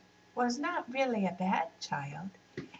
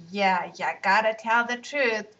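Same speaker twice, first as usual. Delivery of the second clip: gently; 4 dB louder than usual. Acted. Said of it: "joined in Asma gently".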